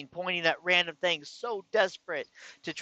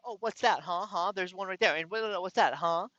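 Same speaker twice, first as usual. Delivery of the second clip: high, taunting "gotcha" voice, raised pitch; mocking taunt; 5 semitones higher than usual. Wife mocking her husband over his witchcraft books, high and taunting. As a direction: needle him like she caught him red-handed.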